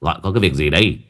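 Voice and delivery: put-on low, lazy drunken slur; slurred drunk voice. A narrator's reading. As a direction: drag the words like a half-drunk man. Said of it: "rồi giọng lè nhè".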